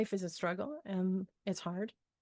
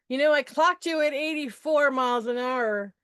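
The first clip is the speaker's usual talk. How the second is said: police officer; 5 dB louder than usual. Retold or imitated. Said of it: "the police officer who says".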